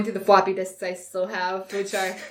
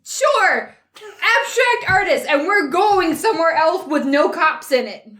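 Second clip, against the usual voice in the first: high evasive character voice; 8 semitones higher, slower than usual. Acted. Character lying to neighbor.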